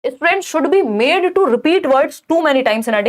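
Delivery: slow, deliberate reading of a test option; slow exam-question reading. Acted. Teacher reading an exam option aloud slowly. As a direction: spell out each word slowly for students.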